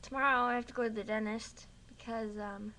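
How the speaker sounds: talking around a mouth guard; words muffled by a mouthguard; wearing a mouthguard. Real, not acted. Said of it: "sorry, mouth guard".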